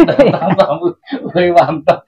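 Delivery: words spilling out through a laugh. Real, not acted. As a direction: laugh high while praising. Host laughs in excitement about guests. (tertawa sambil bicara)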